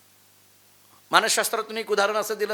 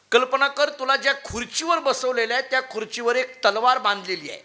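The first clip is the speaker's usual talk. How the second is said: guru's insistent voice; 3 semitones higher than usual. Acted. Guru setting the scene.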